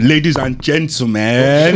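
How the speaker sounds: slow, loud stage announcement; hype man. Pretend. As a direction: open the show like an MC. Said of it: "we're gonna introduce ourselves like we're the hype man".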